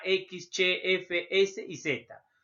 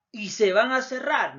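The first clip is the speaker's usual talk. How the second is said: whisper; 5 dB louder than usual. Shown as a demonstration. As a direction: whisper "y se van a cerrar" with no voice. Explaining lip closing.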